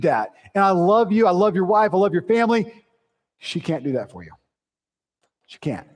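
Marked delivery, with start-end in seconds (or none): 3.4-5.9 soft. Real, not acted. Tender aside about wife.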